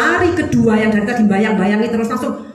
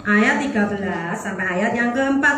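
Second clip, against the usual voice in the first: slow. Shown as a demonstration. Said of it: "ayo dibaca".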